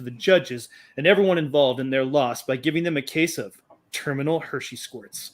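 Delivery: epic movie trailer narration; story narration. Acted. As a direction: read it like an opening crawl. Reads his space opera intro.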